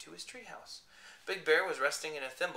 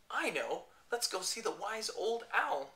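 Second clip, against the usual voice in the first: high, slow small voice; tiny voice; 5 semitones higher, slower than usual. Acted. Shrunk bear suggesting owl, tiny high voice. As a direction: say it tiny like an ant. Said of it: "his voice was so tiny".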